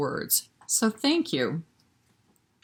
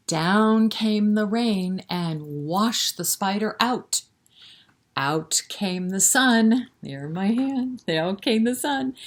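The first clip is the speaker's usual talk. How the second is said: put-on sing-song rhyme read to little kids; lilting, rhythmic recitation for toddlers; nursery rhyme recital; 2 semitones higher, slower than usual. Reciting along with hand motions.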